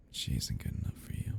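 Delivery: a possessive whisper about the date; jealous whisper. Acted. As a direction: hiss it out in a whisper. Jealous stalker about rival.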